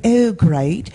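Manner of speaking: lightly mocked Queen accent. Comic retelling the hotel clerk, mock Queen accent. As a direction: imitate a clerk with a touch of the Queen's English. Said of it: "sound like I'm the Queen".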